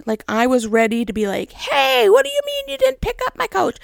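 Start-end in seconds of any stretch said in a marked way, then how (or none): 1.5-3.8 hammed-up indignant complaint; mock confrontation. Caller rehearsing a fight with the recycling place, mock indignant. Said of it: "ready to fight".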